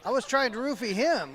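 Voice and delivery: laughing through the words; chuckling while joking. Real, not acted.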